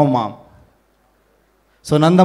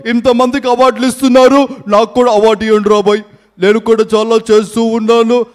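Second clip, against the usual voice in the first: mimicked comic politician; 3 semitones higher than usual. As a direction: demand an award like a boisterous leader. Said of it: "play for mimicry video".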